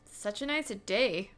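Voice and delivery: character voice. Acted. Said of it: "so Zan says".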